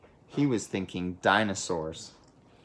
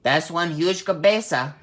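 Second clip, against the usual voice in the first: amazed; 6 semitones higher, 4 dB louder than usual. Acted. Kitty boy amazed at mirror.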